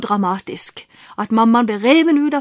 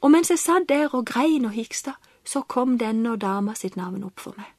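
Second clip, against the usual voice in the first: whispered, much softer at the end; hushed and moved; 2 semitones lower, 5 dB quieter than usual. Real, not acted. To the host, whispering the moment the name came. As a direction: let the memory hush your voice to a breath. Recalling sobbing in the car.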